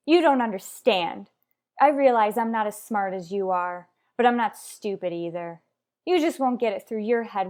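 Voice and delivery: angry. Acted. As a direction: make her finally hear you.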